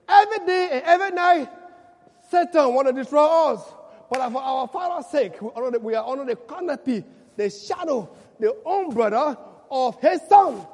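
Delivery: loud, rising preaching; preaching at full force. Acted. Preacher promising the church protection, loud and rising. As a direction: lift the church to the close.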